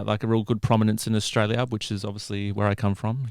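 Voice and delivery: ordinary talk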